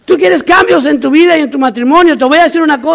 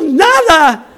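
lightly acted startled reply; mock scared; 3 semitones higher than usual. Frightened recruit caught hiding answers the instructor, mock scared. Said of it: "todo asustado".

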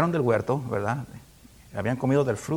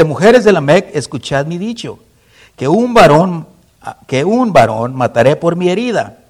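boastful proclamation; 2 semitones higher, 10 dB louder than usual. Acted. Lamech boasting to wives.

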